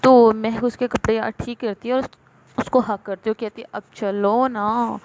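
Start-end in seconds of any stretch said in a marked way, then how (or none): 3.7-5.0 slow, drawn-out coaxing; lightly acted, lingering plea. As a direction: stretch it out like a gentle nag. Coaxing partner to come along.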